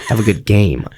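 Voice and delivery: low, sulky well-wishing; mock pissy send-off. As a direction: wish it grudgingly. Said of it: "You're, like, pissy at him".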